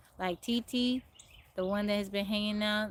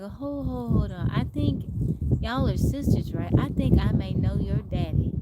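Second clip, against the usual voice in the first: loud, higher imitation of an older country gentleman; hammed-up country twang, voice raised; 3 semitones higher, 7 dB louder than usual. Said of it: "he had a country twang".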